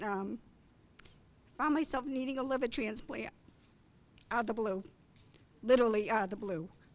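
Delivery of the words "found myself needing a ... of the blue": choked-up voice, breaking, emotion catching in throat. Telling how a sudden liver transplant was needed, choked up. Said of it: "sorry, choke up".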